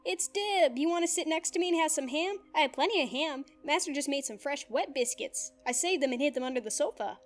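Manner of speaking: high, bright-eyed eager chatter; eager whoop. Acted. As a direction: gush at Dib like a happy robot. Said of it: "whooped eagerly".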